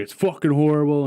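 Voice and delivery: retold grumble, punched with some force; irritated. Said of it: "he's a little irritated".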